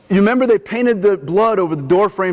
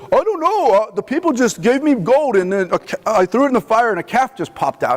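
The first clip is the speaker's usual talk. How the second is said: sheepish excuse; 3 semitones higher than usual. Retold or imitated. Brother to Moses, a lightly voiced sheepish excuse. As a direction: play the guilty brother shrugging it off. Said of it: "He comes and he says".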